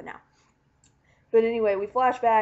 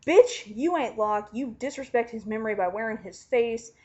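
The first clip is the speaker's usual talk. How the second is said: mock snapping back. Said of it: "Jack just snaps back with".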